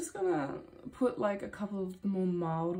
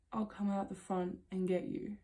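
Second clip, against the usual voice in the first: softer, understated and unhurried in pitch; calm man's voice; 5 dB quieter than usual. Retold or imitated. Man on the phone to the lost driver, calm voice. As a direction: mildly imitate his eerily calm reply. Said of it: "in the most calm voice goes".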